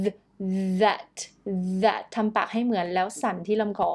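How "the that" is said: "that" starting on a buzzed TH; vibrating TH. Shown as a demonstration. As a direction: buzz the opening sound of "that". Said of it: "แบบสั่นนะคะ".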